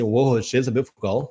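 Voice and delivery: British "beautiful" swallowed to "be'ful"; slurred British imitation; imitated British accent. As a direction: mumble it like a British bloke at the pub. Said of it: "Aí ele pegou e falou assim".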